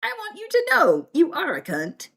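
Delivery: high-pitched acted indignation; telling someone off, voice pushed up; mildly acted anger; mock lost temper. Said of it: "if I've lost my temper with you".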